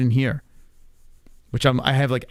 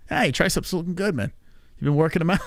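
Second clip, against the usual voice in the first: lightly voiced gym bro, a bit higher; gym bro compliment; 4 semitones higher than usual. Gym bro praising another guy's triceps, lightly mocking. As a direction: hype up a buddy's triceps, bro style.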